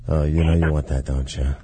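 deep sleazy lover voice; low seductive voice. Acted. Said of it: "just something low".

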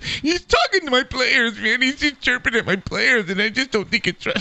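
mock a coach whining to the press; whiny mock complaint. Co-host mocking the coach who ran to the press, whiny. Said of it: "like a whiny little bitch".

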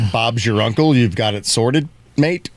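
light British accent, questioning lift at the end. Shown as a demonstration. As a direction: read it as a Brit would. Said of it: "lines to try with the British accent".

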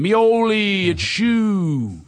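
high, stretched name then his own nickname; friendly phone greeting. Shown as a demonstration. Greeting his buddy on the phone, high and stretched. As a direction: hail him warmly down the line. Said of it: "This is me calling him".

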